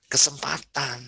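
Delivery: hushed, whispered kesempatan; whispered answer. Real, not acted. Answering own question softly.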